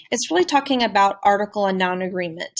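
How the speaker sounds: ordinary delivery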